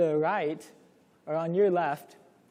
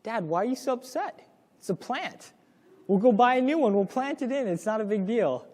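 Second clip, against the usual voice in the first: put-on careless teen; 5 semitones higher than usual. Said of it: "I just said".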